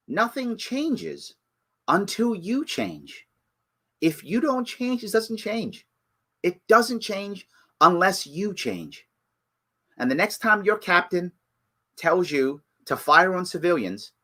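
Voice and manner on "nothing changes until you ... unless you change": much softer and slower, earnest; sincere plea. Real, not acted. Ranter pleading with cops, soft and slow. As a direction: lean in and plead quietly with each cop.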